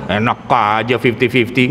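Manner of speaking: scoffing wife. Retold or imitated. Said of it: "kalau bininya rada pinter".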